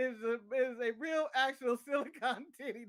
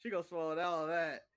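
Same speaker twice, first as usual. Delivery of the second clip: put-on leering old lecher; 3 semitones lower than usual. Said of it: "sounding like a dirty old man".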